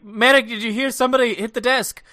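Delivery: loud alarmed call-out. Acted. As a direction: call out, startled. Character calls out in alarm.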